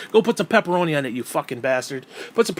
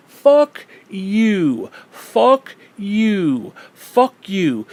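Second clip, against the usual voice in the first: loud, drawn-out furious curse; real anger, louder and hammered out; angry cursing; 4 semitones higher, 5 dB louder, much slower than usual. Real, not acted. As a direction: hurl each word with contempt.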